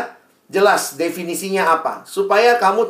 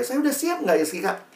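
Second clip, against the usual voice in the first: imitated teen, high and softer at the end; higher-pitched mock wondering; unsure teenager; 7 semitones higher, 4 dB quieter than usual. Teen asks mentor whether they are ready, mock-unsure.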